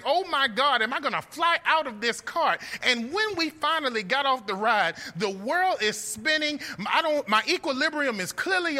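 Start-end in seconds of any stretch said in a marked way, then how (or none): 0.0-2.6 retold panic. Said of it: "and I'm wondering".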